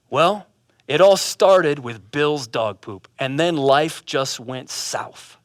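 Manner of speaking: low, slow tale of woe; glum answer. Acted. Offended man explaining his ruined life, low slow gloom. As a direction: sink into a mock-mournful explanation. Joe glumly answers the friend.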